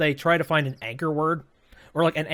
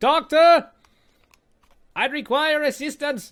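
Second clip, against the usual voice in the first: put-on German accent, pitched very high; 11 semitones higher, 4 dB louder than usual. Doing the only German accent the speaker can nail: Team Fortress 2 Medic German accent. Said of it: "the only German accent that I can um, really nail down is freaking uh, the medic from Team Fortress two is like".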